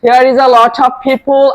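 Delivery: "Here is a lot of people" read slowly, each word clear; teacher reads "Here is a lot of people" slowly for the class to copy; slow model reading. Shown as a demonstration. Teacher models the sentence slowly for the class. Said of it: "ভালো করে শোনো কিভাবে বলি".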